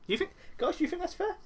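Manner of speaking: a hint of a smug, scheming wrestler; slowed, smug mock plea to the crowd; smug Adam Cole impression. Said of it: "Cole goes on".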